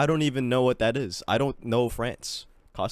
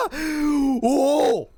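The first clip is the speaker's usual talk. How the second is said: high, loud startled whoa; surprised whoa; 13 semitones higher, 5 dB louder than usual. Real, not acted. Gamer seeing the map result, surprised whoa. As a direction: blurt it out in shock.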